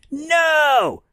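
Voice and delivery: squeaky high No; mock kid voice. Random kid answering Kip, squeaky high No. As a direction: pop it up high like a small boy. Reading the kid's answer from the tape.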